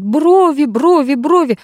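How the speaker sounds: high retold yelling; mock the nanny's shriek; shouting. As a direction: Max imitating the nanny's high yell. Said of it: "давай кричать".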